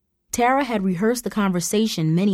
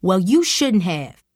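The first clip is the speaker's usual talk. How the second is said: snapping; 4 dB louder, slower than usual. Acted. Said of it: "Mom snapped".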